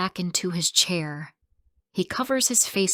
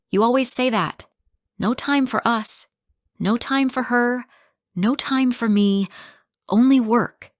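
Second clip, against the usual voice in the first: loud, high, bitter shout; 6 semitones higher, 5 dB louder than usual. Acted. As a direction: throw each "No time" at him. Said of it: "I shout".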